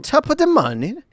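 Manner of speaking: a hammed-up English accent, high; bad English accent. Shown as a demonstration. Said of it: "we thought my English accent was bad".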